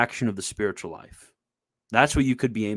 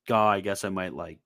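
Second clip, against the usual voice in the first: low, soft, defeated mumbling; imitating a gloomy, doubtful believer; mock gloomy; 4 semitones lower, 4 dB quieter than usual. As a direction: sink into quiet, half-hearted resignation. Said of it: "gloomy attitude".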